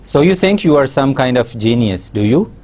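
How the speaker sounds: mildly sarcastic challenge with a rising "do you"; mock them lightly, lifting the tag "do you". Shown as a demonstration. Teacher showing a sarcastic tag question, rising on "do you". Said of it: "expresses sarcasm".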